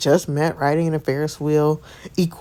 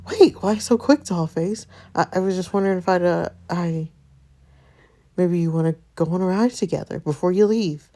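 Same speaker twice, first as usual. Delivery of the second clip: lightly voiced nervous boy; nervous flustered guy; 4 semitones higher than usual. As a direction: stumble shyly. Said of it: "completely different person was talking".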